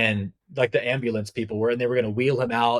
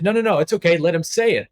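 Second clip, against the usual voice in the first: retold emphatic protest; 5 semitones higher, 5 dB louder than usual.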